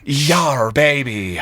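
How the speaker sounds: pirate captain bellowing it out; shouted pirate captain. Acted. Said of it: "pirate captain voice".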